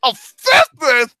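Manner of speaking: slow, high disbelieving question; can't believe the score; incredulous. Real, not acted.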